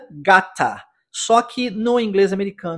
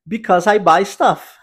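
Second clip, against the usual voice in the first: "Because I buy stuff" said slowly and a bit louder; slow model answer; 4 dB louder, slower than usual. Acted. Teacher giving the answer to students, slow and clear. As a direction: deliver the punchline slowly and clearly. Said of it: "E a resposta é bem simples".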